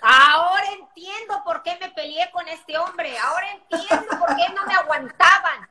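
the penny drops, with a laugh; laughing realization. Retold or imitated. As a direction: reader who finally understands their past fights. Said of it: "van a empezar a decir".

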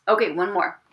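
whispered aside. Real, not acted. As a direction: whisper it to yourself. Aside while searching.

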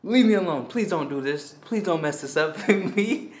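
high, hammed-up pleading no no no; hammed-up frantic begging; mock panicked pleading. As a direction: beg her to back off, mock frantic. Pleading with the friend to stop.

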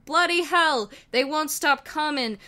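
loud, high panicked British yell. Acted. Wheatley yells as zombies pour in, panicked. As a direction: shout it in alarm as they swarm. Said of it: "Wheatley yelled".

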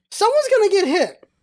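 high, exasperated warning; alarmed protest. Retold or imitated. Bystander watching pedestrians dodge cars, exasperated alarm. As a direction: pitch it up in mock alarm.

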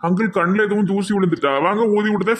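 high, put-on teasing sidekick voice; comic sidekick teasing the weeping uncle, high and playful; cheeky comic voice. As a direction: tease him in a squeaky comic voice. Comic character teases crying uncle.

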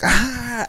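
high-pitched "ah" imitating friends laughing; mock high squeal; imitated laughter shriek. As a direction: act out a noisy burst from the group. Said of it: "me and my friends were like".

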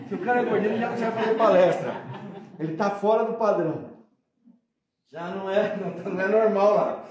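laughing mockery. Real, not acted. Mocking body standards, laughing.

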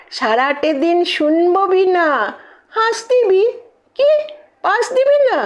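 rhythmic rhymed plea; poem recitation. Acted. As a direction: recite like a student wheedling a goddess.

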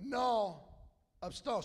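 slow, drawn-out South Louisiana French; slow slang French from South Louisiana. Shown as a demonstration. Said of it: "slang French from South Louisiana".

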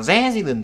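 resident with RE punched; RE-si-dent, first syllable standing out; stress on first syllable. Shown as a demonstration. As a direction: hit the start of resident. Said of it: "trọng âm thứ nhất rồi".

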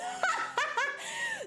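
high, breathy burst of laughter. Real, not acted. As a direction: laugh at the sudden memory. Laughs remembering another incident.

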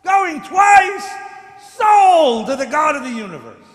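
fast, rising auctioneer chant to a shout; auctioneer call. Pretend. Mock auction call, rising bids.

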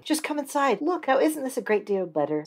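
a pushy wife pressing her husband; wife's voice. Acted. Wife shows cottage.

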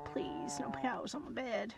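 soft whispered plea; whispering. Real, not acted. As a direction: whisper please.

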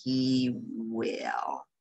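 soft proud whisper. A narrator's reading. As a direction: say it gently under your breath. Father's proud quiet answer.

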